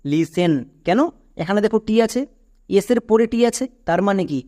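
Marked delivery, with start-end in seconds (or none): 0.1-0.5 লিসেন said with no t sound, "lisen"; correct pronunciation. Shown as a demonstration. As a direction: say লিসেন cleanly, t kept silent. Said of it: "এর উচ্চারণ কী হবে?". (টি না বলে লিসেন উচ্চারণ)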